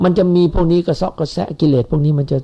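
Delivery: usual speaking voice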